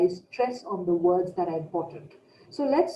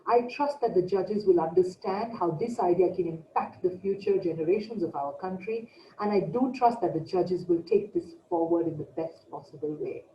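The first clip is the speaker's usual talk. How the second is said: a touch lower, serious closing line; slightly lower pitch demo. Shown as a demonstration. Coach closing a pitch for the judges, slightly lower and serious. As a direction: drop the pitch a little to sound earnest. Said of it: "my pitch was slightly lower".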